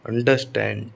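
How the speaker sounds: अंडरस्टैंड, light start and stressed STAND. Shown as a demonstration. Teacher confirming the rule, second part of the verb stressed. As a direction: put the weight on स्टैंड in अंडरस्टैंड. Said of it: "stress आता है ना".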